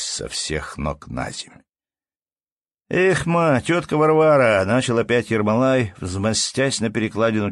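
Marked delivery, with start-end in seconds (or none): 2.9-4.6 loud call. A narrator's reading. Ermolai calling out to aunt.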